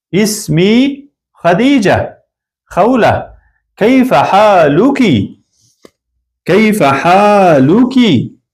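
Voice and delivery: slow, careful lesson recitation of an Arabic dialogue; slow model reading. Shown as a demonstration. Teacher reading a model dialogue to learners, slow and careful. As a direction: read each line slowly for students to copy.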